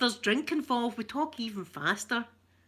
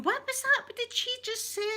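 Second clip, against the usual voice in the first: confused; 14 semitones higher than usual. Retold or imitated. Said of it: "I'd be going".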